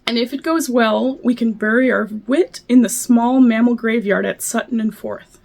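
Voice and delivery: poem reading. Acted. Reads a poem aloud.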